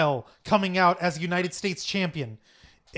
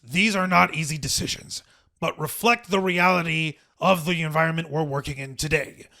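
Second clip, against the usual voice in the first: lightly imitated company chairman; a hint of a put-on executive voice; Vince McMahon. Shown as a demonstration. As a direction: close a staff address as the impersonated boss. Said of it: "imitate his voice".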